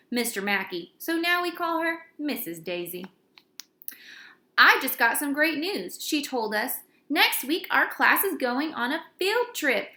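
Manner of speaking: lively storybook narration; animated read-aloud to a class; reading to children. A narrator's reading. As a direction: read it like a fun kids' chapter book. Reading a kids' book aloud.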